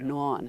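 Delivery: "non" with the Pittsburgh vowel; drawn-out local "non". Shown as a demonstration. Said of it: "the way she said that one syllable".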